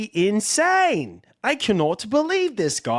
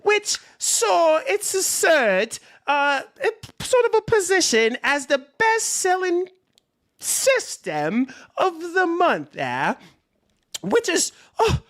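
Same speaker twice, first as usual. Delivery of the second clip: put-on Temu British accent; 3 semitones higher than usual. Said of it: "a Temu British accent".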